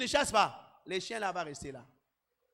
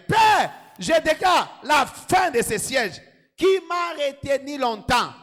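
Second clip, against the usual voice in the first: fervent preaching; 8 dB louder than usual. Acted. Pastor cries out against the problems, loud and fervent. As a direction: declare it like a battle cry.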